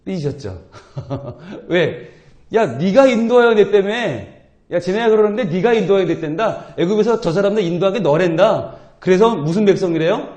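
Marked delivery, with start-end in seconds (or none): 2.5-8.8 sulking God. Acted. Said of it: "완전 삐지셨죠".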